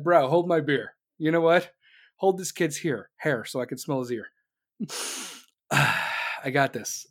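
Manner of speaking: low, lazy mock Biden. Comedian voicing Biden taking the dare, low and lazy. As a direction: drag it out like a dopey old man.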